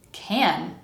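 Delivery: CAN said in full, with its vowel; full dictionary vowel. Shown as a demonstration. Teacher listing short connecting words, clearly pronounced. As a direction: say CAN as if alone, unreduced. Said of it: "what you'll hear if you ask someone to say the word in isolation".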